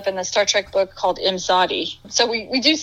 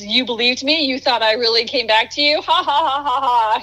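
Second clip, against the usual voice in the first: gloating villain with a mocking laugh; hammed-up evil gloat, ha ha ha; mustache twirling villain; 3 semitones higher than usual. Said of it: "mustache twirling like Osira".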